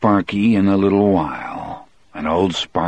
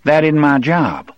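sneering; 9 semitones higher, 4 dB louder than usual. Acted. Percy sneers at guard.

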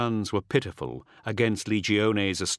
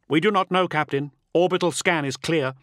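high, raised comm reply; urgent soldier's report; 7 semitones higher, 4 dB louder than usual. A narrator's reading. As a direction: answer your captain under pressure.

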